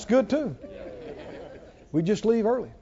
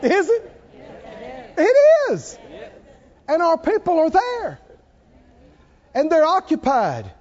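high, loud, rising preacher's cry; preaching at full force; 10 semitones higher, 3 dB louder than usual. Acted. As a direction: proclaim it to the whole church.

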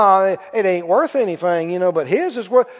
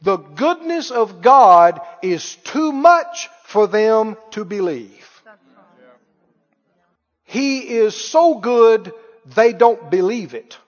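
slow preaching; slower than usual. Real, not acted. Preaching slowly with emphasis.

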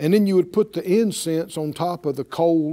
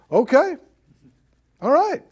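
mock concession; 7 semitones higher, 4 dB louder than usual. Moses mockingly conceding to rebels.

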